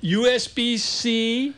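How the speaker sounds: eager, drawn-out announcing; loud and excited. Real, not acted. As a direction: punch each letter with excitement. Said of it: "Well, you're really loud".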